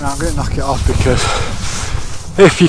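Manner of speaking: puffing and panting uphill; breathless from the climb; out of breath. Real, not acted. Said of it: "me frigging puffing and panting".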